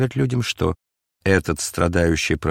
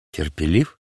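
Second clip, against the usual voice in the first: indignant; 4 semitones lower than usual. A narrator's reading. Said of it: "возмутился Варава".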